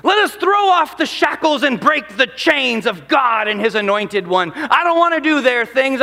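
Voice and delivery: shouted, defiant rebel cry; rally the troops like a Scottish rebel; William Wallace voice. Acted. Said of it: "in their best William Wallace voice".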